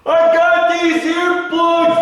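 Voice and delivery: high, slow put-on voice offering earplugs; mock polite offer. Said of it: "And I'm like".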